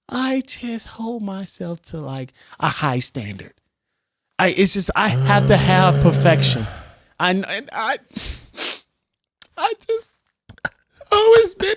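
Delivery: mock tearful voice. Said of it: "Why are you crying?".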